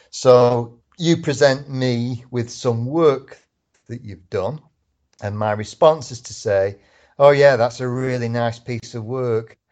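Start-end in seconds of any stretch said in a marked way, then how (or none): 7.1-9.4 sneering, insincere, mocking tone. Showing how tone can undercut praise of someone's work, sneering. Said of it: "the sneer in my voice".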